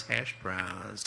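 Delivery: touch of a musician's impression, trailing down. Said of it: "to quote a singer".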